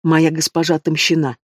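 plain reading voice

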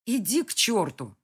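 sharp angry retort; swearing. Acted. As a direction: spit it back at him. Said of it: "выругалась я". (злое ругательство)

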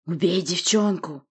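slow, commanding monster; monster's order. Acted. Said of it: "приказал Рык".

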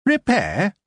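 high, pained groan of a grumbling dwarf. A narrator's reading. Dwarf shopkeeper groaning at a repair request. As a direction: drag the word out like it hurts. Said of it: "he groaned".

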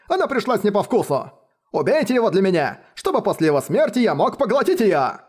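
high, demanding spoiled heir; spoiled young master. Acted. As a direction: insist like a spoiled brat.

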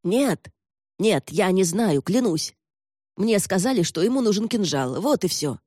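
frightened captive protesting; anxious pleading. Acted. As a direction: plead innocence to an interrogator. Captive pleads ignorance under threat.

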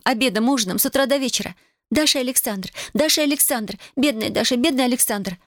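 high-pitched, agitated tirade; crying out. A narrator's reading. Tatiana tells Alexander of daily village gossip, crying out. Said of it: "вскричала она".

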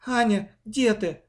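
plain reading voice

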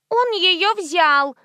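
put-on high, very slow little-girl tattling; little girl tattling on her brother; tattling child. A narrator's reading. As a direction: tell on him like a small girl. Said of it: "ябедничала девочка".

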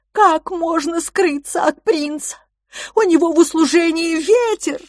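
put-on a huge creature fretting for the children; big childlike monster in a panic; anxious giant. Voices the giant Kalix.

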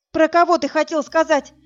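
high, loud shouted question; shouting. A narrator's reading. Woman yelling at the dead man, frantic. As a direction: yell the question at him. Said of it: "закричала я".

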